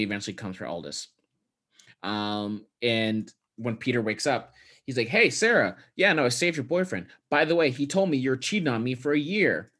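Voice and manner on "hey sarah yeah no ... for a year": higher, pointed retelling; imitated passive-aggressive greeting; mock casual confrontation. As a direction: act out a falsely breezy accusation. Retells confronting his girlfriend.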